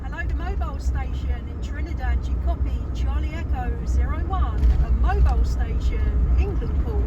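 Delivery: projecting loudly into the mic; loud, firm ham radio call-out. Real, not acted. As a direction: call out loud over the airwaves. Calling a distant radio station.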